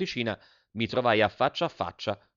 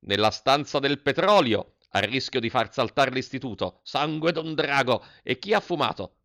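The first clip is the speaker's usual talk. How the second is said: thundering rage; 2 semitones higher than usual. Acted. Headmaster catches the boy smoking and thunders in fury. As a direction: explode at the boy caught smoking. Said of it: "tonò".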